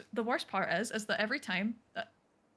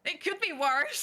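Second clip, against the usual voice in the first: put-on Scottish accent; 5 semitones higher, slower than usual. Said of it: "talk in a Scottish accent".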